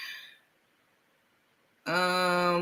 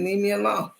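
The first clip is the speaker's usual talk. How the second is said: mock flat Rico; 5 dB louder than usual. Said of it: "The way he said it".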